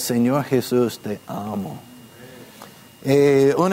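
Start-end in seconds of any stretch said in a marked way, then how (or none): 0.0-1.8 softer, fading into te amo; whisper-soft devotion; tender morning prayer. Shown as a demonstration. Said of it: "lo que yo prefiero hacer". (oración tierna que se apaga)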